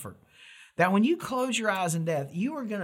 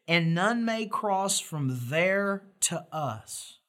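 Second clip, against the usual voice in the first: solemn scripture reading; 3 semitones higher, slower than usual. Acted. Reads scripture slowly.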